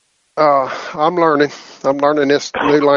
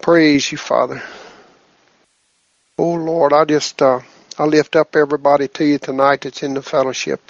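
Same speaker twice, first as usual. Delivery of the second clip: prayer. Acted. Leads group prayer.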